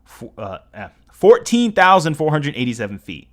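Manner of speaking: real stumbles with filler sounds; stuttering. Real, not acted. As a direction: trip over the figure, then restate it forcefully. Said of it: "Sorry if I'm stuttering a lot".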